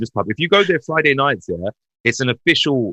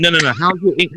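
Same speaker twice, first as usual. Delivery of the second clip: slightly raised mock interviewer voice; correcting recruiter; 4 semitones higher than usual. Recruiter re-asking an applicant who misunderstood, mildly exasperated insistence. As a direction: gently insist on the question, pitched up. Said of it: "I went".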